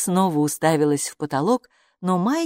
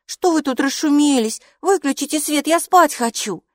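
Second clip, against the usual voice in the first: grumpy Hila; 9 semitones higher, 4 dB louder than usual. Acted. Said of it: "Хила сердито приподняла голову".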